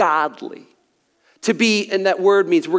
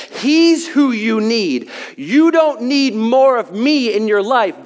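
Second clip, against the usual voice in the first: full-force preaching. Acted. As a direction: preach it out with building fervor. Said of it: "That's good preaching right there".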